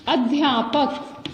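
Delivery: अध्यापक slow, dhya cluster stressed; careful pronunciation. Shown as a demonstration. Teacher modelling अध्यापक for the class. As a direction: say अध्यापक slowly and distinctly. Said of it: "अब देखिए".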